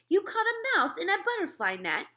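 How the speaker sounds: high, loud, disbelieving question; can't believe what she's seeing; amazed woman. A narrator's reading. Woman asking the boy about the net, amazed.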